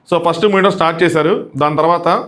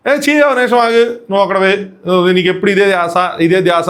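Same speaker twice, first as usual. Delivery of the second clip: scolding; 2 semitones higher than usual. Retold or imitated. Older woman scolding the pestering young man, irritated. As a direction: brush him off in annoyance. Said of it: "అన్నట్టు".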